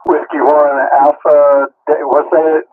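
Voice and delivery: talking through a mouthful of food; eating and talking at once; chewing while talking. Real, not acted. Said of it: "trying to eat and talk at the same time".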